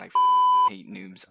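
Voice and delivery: high, slow shrieking rage; raging gamer yell. Acted. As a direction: scream like a tilted gamer.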